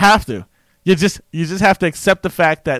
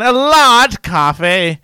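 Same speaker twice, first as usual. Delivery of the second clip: put-on slow, loud English accent; exasperated, stretched English accent; stuck English accent; 6 semitones higher, 7 dB louder, much slower than usual. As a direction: spell it out slowly in broad English accent. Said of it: "stuck in it and you're trying to order".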